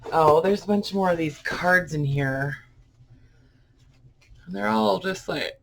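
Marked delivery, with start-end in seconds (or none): 4.4-5.5 talking through a yawn; words stretched by a yawn. Real, not acted. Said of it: "I don't know why I'm yawning".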